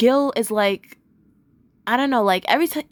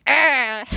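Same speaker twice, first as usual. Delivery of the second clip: zombie noise. Retold or imitated. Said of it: "they're pretending to be zombies".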